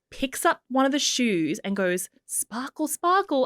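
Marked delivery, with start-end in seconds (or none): 2.3-2.9 put-on baby voice. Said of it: "talk to your shoe in a baby voice". 2.9-3.5 put-on baby voice, falling. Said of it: "talk to your shoe in a baby voice".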